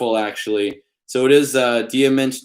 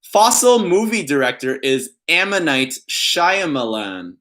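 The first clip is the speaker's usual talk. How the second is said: pun reading voice; 3 semitones higher than usual. Pretend. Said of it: "I always put on that voice when I'm reading puns".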